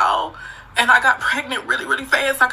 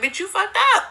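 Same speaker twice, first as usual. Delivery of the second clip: self-scolding quote; 11 semitones higher than usual. Retold or imitated. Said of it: "and I was like".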